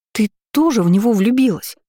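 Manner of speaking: high, loud excited yell. A narrator's reading. Lira guessing Florence is in love, loud yell. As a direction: yell the question out in shock. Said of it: "завопила Лира".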